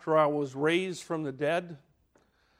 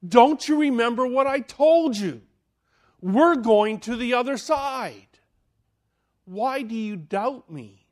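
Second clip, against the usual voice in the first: a touch of stern rebuke, rising louder; mildly acted stern teacher; Jesus rebuking; 4 semitones higher, 4 dB louder than usual. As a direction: rebuke them firmly but kindly. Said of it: "Jesus got up and said".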